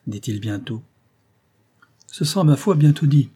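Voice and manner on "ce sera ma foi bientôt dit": hard bitter laugh. A narrator's reading. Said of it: "avec un rire dur et amer".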